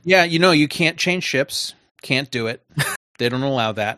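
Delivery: mock-agreeing, with a touch of sarcasm; dry sarcasm breaking into a laugh; sarcastic. Real, not acted. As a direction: say it as if conceding an absurd rule. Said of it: "I think you're being sarcastic".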